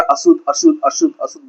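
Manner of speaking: high then fading calls of unclean; preacher imitating a leper calling unclean; leper's warning call. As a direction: cry out then trail off, warning people away. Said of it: "इसलिए अपने को बोलता रहा".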